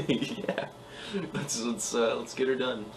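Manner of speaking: shaky voice. Acted. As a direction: voice wobbling with nerves. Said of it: "I say in a shaky voice".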